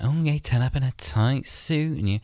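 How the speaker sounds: high-pitched imitated indignation; mock indignant. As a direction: throw it at him in mock outrage. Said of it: "She's like".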